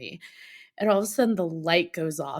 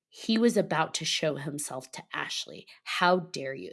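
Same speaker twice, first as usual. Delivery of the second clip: retold indignation; 2 semitones lower, 4 dB quieter than usual. Cousin scolding her mom for scaring her friend off, quietly indignant. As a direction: imitate an angry child with restraint. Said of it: "She is angry".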